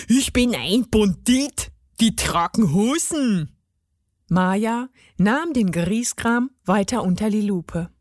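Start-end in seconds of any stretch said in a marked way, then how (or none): 0.1-3.6 put-on gnome voice, stamping defiance; indignant gnome. A narrator's reading. Gnome stamps and claims to be a bandit, indignant. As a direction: insist huffily as a little gnome. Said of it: "stampfte mit dem Fuß".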